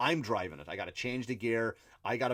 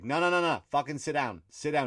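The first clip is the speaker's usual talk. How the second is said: high, raised-voice imitation of a conductor; urgent acted-out command to stop; ordering them down; 4 semitones higher, 5 dB louder than usual. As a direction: cut them off like a fed-up ticket guy. Acted ticket guy stopping passengers.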